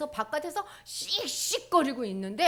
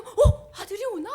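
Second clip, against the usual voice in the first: hopeful father; 11 semitones higher, 12 dB louder than usual. Acted. Father hears rustle at night.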